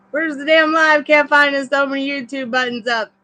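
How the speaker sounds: high, loud exasperated complaint; frustrated outburst. Real, not acted. Reader can't find the livestream link, loud and exasperated. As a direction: snap at the screen in real frustration.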